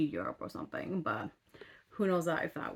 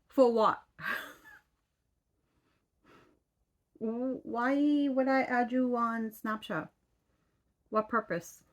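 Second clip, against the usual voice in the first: incredulous; 5 semitones higher, slower than usual. Retold or imitated. Incredulous at Snapchat request.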